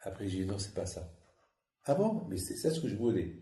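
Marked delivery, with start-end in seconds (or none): 1.8-2.2 surprise jouée. Retold or imitated. La femme surprise, voix jouée.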